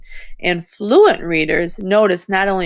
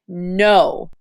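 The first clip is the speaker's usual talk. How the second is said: firm NO as a command to a dog; 3 semitones lower than usual. Shown as a demonstration. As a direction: say "No" firmly, pitched a little down. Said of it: "He pushed the dog down firmly".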